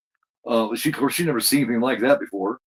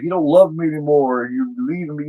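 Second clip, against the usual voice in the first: imitating his wife; 3 semitones higher, 4 dB louder than usual. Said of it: "He was doing an imitation of her".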